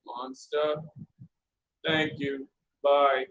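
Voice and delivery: low, soft puzzled fisherman. Acted. Fisherman puzzled at the robber, low and soft. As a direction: answer dryly and low.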